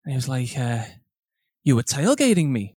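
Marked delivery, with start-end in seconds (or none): 1.6-2.7 mimicked old man's foreign accent, vaguely European. Old man accusing a driver of tailgating, European accent. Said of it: "Is this a Vietnamese man?".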